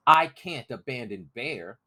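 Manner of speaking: put-on a boy refusing to let go; stubborn boy. Crispin refuses to abandon Bear, high and determined.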